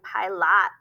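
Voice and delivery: PILOT mispronounced as pie-LOT; wrong short O. Shown as a demonstration. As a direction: say PILOT with a full "ah" in the second syllable. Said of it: "We're not saying pilot".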